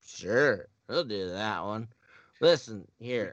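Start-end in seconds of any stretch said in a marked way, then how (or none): 2.4-3.3 Swedish chef voice. Acted. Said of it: "Swedish chef".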